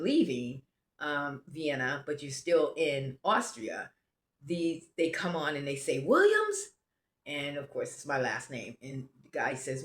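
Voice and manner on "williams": surname called out high and loud; calling out. Retold or imitated. Border guard calls a passenger on the bus, calling out. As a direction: call the name like a roll call.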